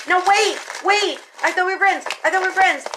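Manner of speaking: flabbergasted pleading. Retold or imitated. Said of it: "she was flabbergasted".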